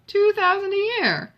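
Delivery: high, loud mock astonishment with a laugh in it; lightly laughing exclamation, slowing at the end; laughing disbelief. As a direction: tease her sister with amused disbelief. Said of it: "Eleanor laughed".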